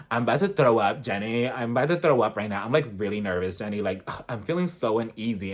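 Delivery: low, subdued mock nervousness; mock uneasy Lisa. Recapper mimicking a nervous housewife in the van, low and uneasy. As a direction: lightly imitate someone queasy with nerves, dropping the pitch. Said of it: "And I felt uneasy too".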